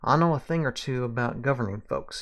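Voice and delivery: Southern small-town lawman; Southern accent. Acted. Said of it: "I can do the accent".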